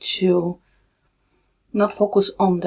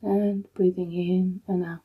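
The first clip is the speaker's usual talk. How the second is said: calm, unhurried meditation guide with long pauses; soothing, even delivery in short, spaced-out phrases; guided meditation; 3 dB quieter than usual. Real, not acted. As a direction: guide them gently into stillness, leaving long silences.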